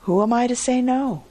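high, quick verbal shrug; shrugging. A narrator's reading. Merchant giving in to the farmer's wager, shrugging. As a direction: give in lightly and quickly. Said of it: "at last he shrugged".

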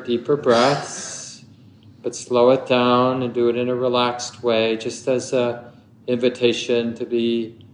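unhurried meditation guidance with long pauses; measured meditation teacher, phrase by phrase; guided meditation. Acted. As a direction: guide listeners gently into stillness, leaving long silences.

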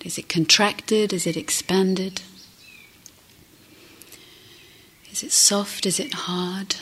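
gentle meditation guidance with long pauses; guided meditation. Acted. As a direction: guide listeners gently inward, leaving space between phrases.

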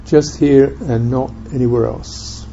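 unhurried meditation guidance with long silences; calm, spacious guiding, leaving room after each phrase; guided meditation. Real, not acted. Teacher guiding listeners to experience presence in the body, guided meditation.

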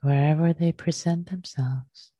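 unhurried meditation teacher, leaving long pauses; guided meditation. Real, not acted. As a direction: gently guide them into the breath, phrase by phrase.

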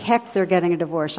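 mild, hurried indignation; lightly acted outburst, quick and punchy; mock explosion. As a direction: retell an indignant sister's flare-up. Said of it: "she explodes".

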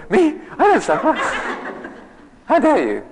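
hammed-up how-dare-you indignation; offended huffiness. Mocking his younger self's outrage at the monk, laughing. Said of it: "this tone in my voice saying".

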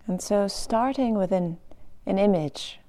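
measured meditation-guide delivery with pauses; guided meditation. Acted. Teacher inviting meditators to picture unconditional love, guided meditation voice. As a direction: ease listeners into the practice, leaving space. Begins loving-kindness meditation instruction.

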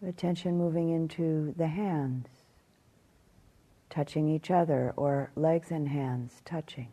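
calm meditation guidance with long pauses; measured phrases, spaced out by silence; guided meditation. Acted. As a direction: guide them gently through the body, leaving long silences.

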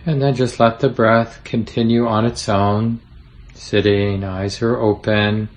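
unhurried meditation guide with long pauses; easy, spacious guiding voice; guided meditation. Acted. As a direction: gently lead them through settling, leaving room to breathe.

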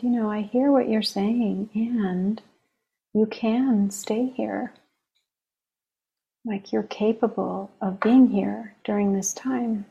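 unhurried, gently reassuring retelling; calm. Retold or imitated. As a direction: relay the teacher's calm reassurance. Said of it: "he just said very calmly".

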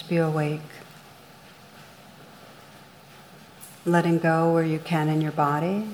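calm, measured meditation guide with long pauses; guided meditation. Real, not acted. Meditation teacher leading listeners through rain on blame, guided meditation. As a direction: guide listeners gently inward, leaving room between phrases.

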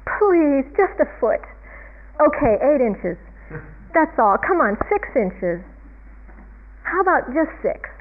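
mock pleading haggle; Calvin. Calvin bargaining with the heavens for snow, lightly pleading. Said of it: "You know, bargaining".

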